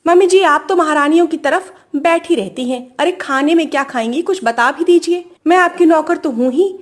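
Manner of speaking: mildly sarcastic complaint, pitch lifting; taunting. Acted. Sister-in-law complains to mother-in-law about serving, taunting. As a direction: needle her with a touch of mock servility. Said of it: "ननद को ताने मारते हुए".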